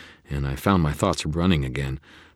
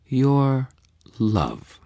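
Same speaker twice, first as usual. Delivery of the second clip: murmuring; 10 semitones higher, 5 dB louder than usual. A narrator's reading. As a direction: breathe the word love. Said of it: "she murmured".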